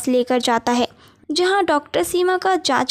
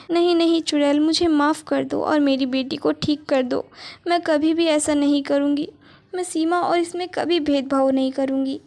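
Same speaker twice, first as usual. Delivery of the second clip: begging mother. Acted. Mother begs witch again.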